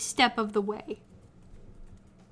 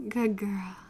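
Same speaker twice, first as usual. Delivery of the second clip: put-on praising good girl; 2 semitones lower than usual. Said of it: "Say good girl again, please".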